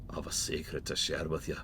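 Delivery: secretive breathy whisper. Acted. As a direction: whisper it like a conspirator. NPC confides a secret.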